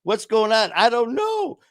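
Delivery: a hint of a puzzled Grinch; a touch of the Grinch waking up to feelings; Grinch confusion. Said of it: "I felt like the Grinch".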